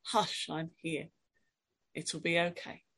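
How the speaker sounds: quiet comforting whisper-like reassurance; tender hush. Pretend. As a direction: hush a child gently. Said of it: "God holding you like a child".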